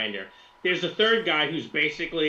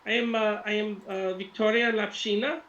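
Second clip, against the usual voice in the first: high-pitched Russian woman; lilting put-on Russian voice; Victoria Lapshina; 9 semitones higher than usual. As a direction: introduce yourself haltingly in a high Russian accent. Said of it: "in a beautiful Russian voice".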